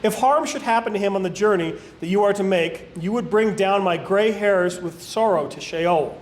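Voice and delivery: even, deliberate reading with lightly weighted key words; scripture reading. A narrator's reading. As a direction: read Bible narrative aloud in measured phrases. Reads scripture aloud.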